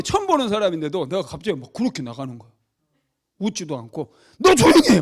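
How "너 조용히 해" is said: very loud, high angry shout; full-force scolding yell, replayed; re-enacted bellowing rebuke. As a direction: act out losing patience with a heckler. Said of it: "막 야단쳐요".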